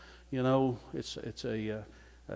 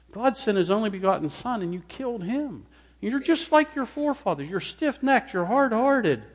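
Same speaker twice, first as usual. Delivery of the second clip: loud, much higher accusing cry; fiery rebuke; 10 semitones higher, 6 dB louder than usual. Acted. Stephen denouncing the council, high and loud. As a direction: pound each charge home.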